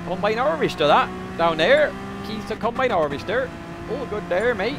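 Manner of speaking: high rural southern English accent; southern English country accent. Shown as a demonstration. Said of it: "Could go more, more south".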